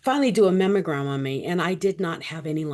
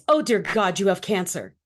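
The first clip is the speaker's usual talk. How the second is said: retold shocked blurt; 4 dB louder than usual. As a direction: act out a doctor's startled reaction. Doctor's shocked blurted diagnosis.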